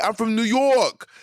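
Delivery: high, slow, showy "I'm from New York"; a proud New Yorker bragging, mimicked; mock proud New Yorker. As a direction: lord it over everyone, mock-proud. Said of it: "she was putting it on".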